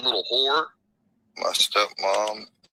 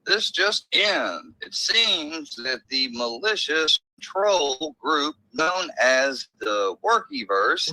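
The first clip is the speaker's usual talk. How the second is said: slow, mock news anchor read; 4 semitones higher, slower than usual. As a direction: announce it like breaking news.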